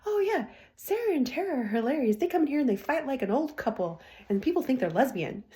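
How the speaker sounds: a hint of a gossiping nail tech; mock gossipy nail tech. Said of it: "She proceeds to tell her client".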